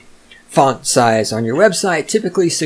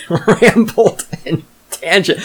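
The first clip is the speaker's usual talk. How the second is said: laughing; 6 semitones higher, slower than usual. Real, not acted. Laughs at own rambling.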